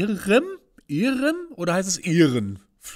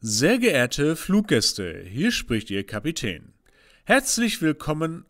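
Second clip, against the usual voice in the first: pilot announcement. Acted. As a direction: announce like an airline captain. Captain's cabin announcement. (Flugkapitän-Durchsage)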